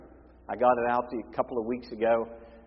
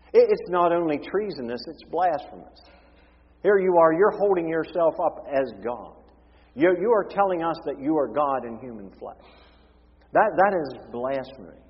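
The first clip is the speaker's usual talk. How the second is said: higher, louder scandalised protest; outraged accusers; 4 semitones higher, 3 dB louder than usual. Acted. Pharisees accuse Jesus of claiming to be God, outraged. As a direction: accuse him of blasphemy, stammering with outrage.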